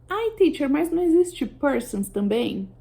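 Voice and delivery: mock student. Teacher voicing a student who asks about persons, lightly mock student. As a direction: play a puzzled student raising a hand.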